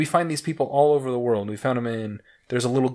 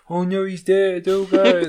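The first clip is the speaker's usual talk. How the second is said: mock alarmed cry, raised a little, with a laugh; a hammed-up servant wailing that the master is dead; panicked ancient servant; 6 semitones higher, slower than usual. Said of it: "I don't know why they had that voice".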